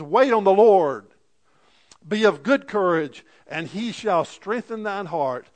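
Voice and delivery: loud, emphatic scripture preaching; fervent preaching. Real, not acted. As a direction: drive the promise home loudly. Preaches with force.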